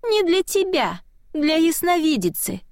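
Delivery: high little spirit voice; high childlike spirit voice; small child voice. A narrator's reading. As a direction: announce it like a tiny eerie messenger. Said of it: "голосок".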